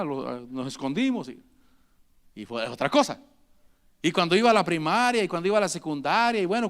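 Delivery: a hint of a sinner reciting his childhood sins; mock confession. Mock believer listing old sins.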